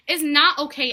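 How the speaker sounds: loud moral stand against cheating husbands; emphatic protest. Real, not acted. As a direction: plant your foot down. Condemning normalized cheating in communities.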